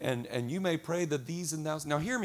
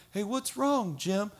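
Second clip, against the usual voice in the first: higher-pitched, lightly acted query; concerned coworker; 6 semitones higher, slower than usual. Coworker asking Jim what's wrong, mock concern. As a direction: ask as a curious coworker.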